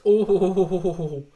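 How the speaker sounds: long wavering "ooooh"; near-miss groan of a football watcher; drawn-out ooh. Real, not acted. Watchalong host reacting to Aguero hitting the post, drawn-out ooh.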